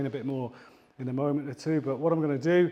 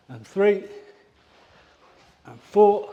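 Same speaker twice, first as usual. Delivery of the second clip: loud, higher counts while kicking; effortful count; 5 semitones higher, 7 dB louder than usual. Real, not acted. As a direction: push the count out mid-kick. Counting kicks during exercise.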